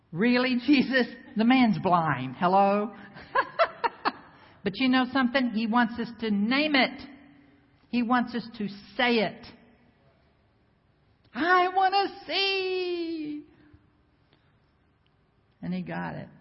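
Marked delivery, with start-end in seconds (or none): 0.1-2.9 sarcastic, loud disbelief; mock the obvious question, louder; incredulous sass. Mocking Jesus's question. 3.0-4.1 high laugh. Real, not acted. Preacher laughing at own joke. 11.3-13.4 high, slow, longing plea; slow, high pleading voice; plaintive plea. Acted. Blind man's request.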